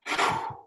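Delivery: demo sigh. Shown as a demonstration. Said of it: "you let the emotion just".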